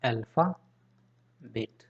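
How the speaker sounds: "अल्फ़ाबेट" very slowly, split into parts with a gap; drawn-out topic word. Shown as a demonstration. Teacher announcing the new topic to the class, drawn out. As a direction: stretch out "अल्फ़ाबेट" piece by piece.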